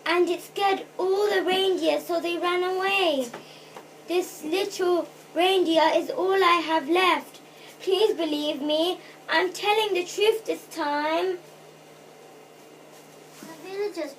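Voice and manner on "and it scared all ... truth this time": understated tearful plea; tearful pleading. A narrator's reading. Girl begging villagers to believe her, tearful pleading. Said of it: "she explained between sobs".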